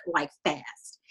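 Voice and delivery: hushed, breathy warning; urgent whisper. Retold or imitated. Senator whispering a warning to Wade, hushed. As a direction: lean in and whisper the threat.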